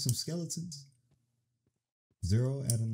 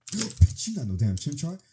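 surprised outburst; 4 semitones higher, 6 dB louder than usual. Real, not acted. Fooled by a Pokemon sound.

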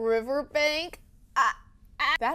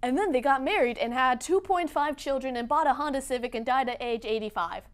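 mock storybook ending. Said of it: "rather than".

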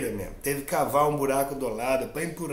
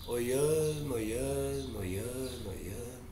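fading repetition; 5 semitones lower, 10 dB quieter, slower than usual. A narrator's reading. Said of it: "repeated word fading away".

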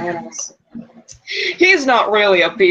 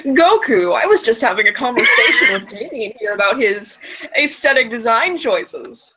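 1950s sitcom dad. Acted. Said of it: "in my best fifties white suburban sitcom dad voice".

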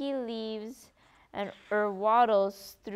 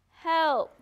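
higher, louder yell; call for help; 5 semitones higher, 6 dB louder than usual. A narrator's reading. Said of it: "I've yelled myself hoarse".

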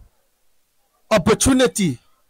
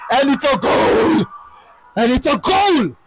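1 goal call. Real, not acted. Commentator calling a goal.

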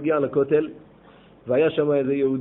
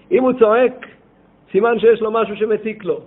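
emphatic preaching; 6 semitones higher, 7 dB louder than usual. Real, not acted. Preacher stresses the lesson.

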